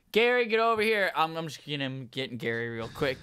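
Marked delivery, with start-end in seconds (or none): 0.1-1.1 Australian manager calling out, high and loud; Australian accent. Acted. Manager calls Gary over to the table, Australian accent. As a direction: holler in a put-on Australian accent. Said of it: "is Australian".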